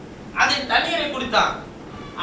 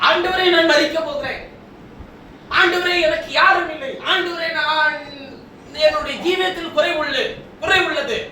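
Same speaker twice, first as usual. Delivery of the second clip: raised-pitch pleading, acted out by a preacher; imitated lament; 4 semitones higher than usual. Preacher voicing a helpless man crying to the Lord, imitated lament. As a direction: cry out in mock despair. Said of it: "அழுது புலம்புகிறான்".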